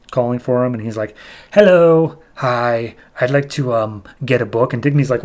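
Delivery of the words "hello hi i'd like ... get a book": lightly voiced creepy caller; scary voice. Scary stranger calling for the bookshop owner, lightly spooky voice. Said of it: "this scary voice speaks out".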